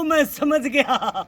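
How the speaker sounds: ordinary talk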